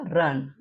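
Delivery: रन with a short uh vowel. Shown as a demonstration. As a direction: say रन with uh, not yoo. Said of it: "अ होता है". (रन में छोटा अ स्वर)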